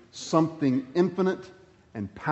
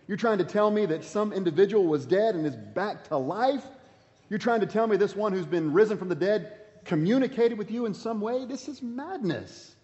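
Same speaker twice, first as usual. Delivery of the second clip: mock incredulous Festus; 4 semitones higher than usual. Preacher voicing Festus scoffing at Paul, incredulous. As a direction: scoff at Paul as if he's lost his mind.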